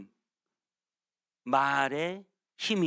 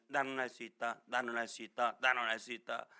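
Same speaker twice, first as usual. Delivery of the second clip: low, monotone repeated chant; self-help affirmation; 8 semitones lower, 3 dB quieter than usual. Retold or imitated. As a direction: mimic someone reciting a self-help slogan. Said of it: "자기계발서에는 이런 말 있잖아요". (자기계발서 구호를 낮고 단조롭게 되뇌는 흉내)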